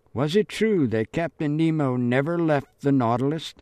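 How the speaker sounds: lightly voiced girl reading; girl reading aloud. Marie-Laure reads the book aloud.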